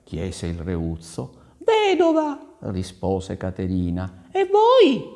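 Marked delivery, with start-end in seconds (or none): 1.6-2.4 very high-pitched lady's voice; coy lady. Acted. Caterina answers the prince. 4.3-5.0 very high, loud little question; coy lady. Acted. Caterina questions the prince.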